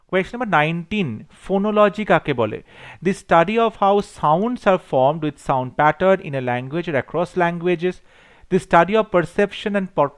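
reads the exam question slowly and deliberately; dictating each English word clearly to the class; slow question reading. Acted. Teacher reading a multiple choice question to students, slow and deliberate.

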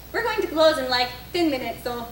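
badly faked, mild Italian accent; a hint of hammed-up Italian accent; horrible Italian accent. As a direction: attempt a half-hearted Italian accent. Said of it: "that was a horrible Italian accent".

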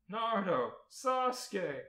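loud, high alarmed call; yelled. A narrator's reading. Two friends calling to the fallen ninjas, yelled. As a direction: yell out the names. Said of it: "Corey and Ryuko yelled in unison".

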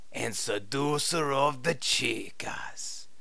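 put-on suggestive whisper in Spanish accent. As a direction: breathe it seductively. Suggestive boast.

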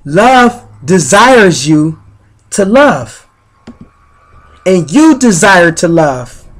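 measured, earnest recital of affirmations over music. Acted. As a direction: lay each line down like a gentle sermon.

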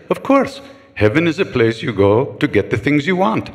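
put-on a light matter-of-fact old guru, chuckling; matter-of-fact Indian elder. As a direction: explain it as obvious, amused. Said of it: "He said".

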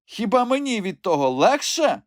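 high crone voice, grumbling; cross old woman. A narrator's reading. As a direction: answer back crossly. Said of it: "сердито мовила стара". (сердитий високий старечий голос)

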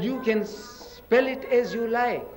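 slow retold remark. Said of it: "I said".

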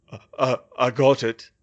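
stammering, strained weak voice; halting effort to speak; weak, faltering. A narrator's reading. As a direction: force the words out feebly. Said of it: "The words were so weak".

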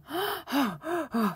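quick, high gasps; angry panting. Shown as a demonstration. Teacher showing learners how breath speeds up when angry, angry panting. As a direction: huff out fast, audible breaths. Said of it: "화가 나면".

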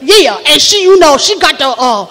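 Southern church lady prophesying; stretched vowels, emphatic swoops; Carlethia Sweetwater. Acted. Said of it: "That's what she do".

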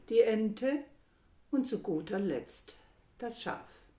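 measured, emphatic poetry reading with deliberate pauses; declaimed verse, carefully paced; poem recitation. Acted. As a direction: recite it line by line, weighting key phrases.

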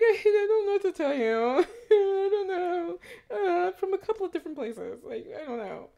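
high, squeaky, stammering panic; mock intimidated. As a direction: squirm under questioning in a high voice. Acts out own intimidated reply.

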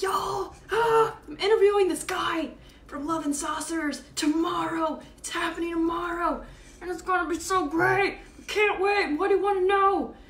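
high, loud mock squeal of excitement; acted-out excitement. Host re-enacting her post to followers, wildly excited. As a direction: gush at top pitch, re-enacting a giddy announcement.

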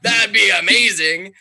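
high, loud, thrilled disbelief; gushing with delighted surprise; excited. Retold or imitated. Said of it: "I'm like".

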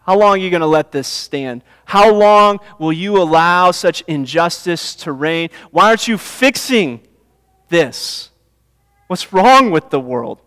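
loud, pleading cry of frustration at God; a prophet's anguished complaint, rising high and loud; frustrated complaint. Retold or imitated. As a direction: call out to God in protest, demanding answers. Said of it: "really in frustration and complaint".

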